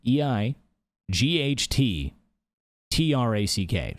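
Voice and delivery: slow down and space each letter clearly; slow spelling. Shown as a demonstration. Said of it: "there's two T's in the middle".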